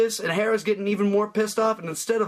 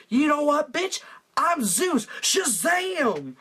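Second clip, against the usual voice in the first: higher, angry god reveal; mad Zeus; 6 semitones higher, slower than usual. Acted. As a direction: snap out the reveal with rising fury. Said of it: "he gets really mad and says".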